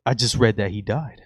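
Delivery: put-on light Brooklyn accent, casual "yo". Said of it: "I gotta put up my Brooklyn accent".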